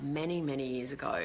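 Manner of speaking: normal talking voice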